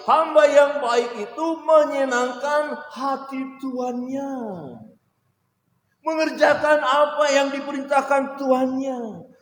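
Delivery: high, loud, slow fervent preaching; preaching at full force. Real, not acted. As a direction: preach it with fire, slowly. (khotbah penuh semangat, lambat dan lantang)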